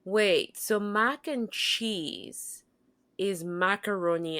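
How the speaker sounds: slow, drawn-out wondering question; curious puzzlement. Retold or imitated. Newcomer in the dining hall, slowly puzzling it out. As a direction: stretch it out as you work it through.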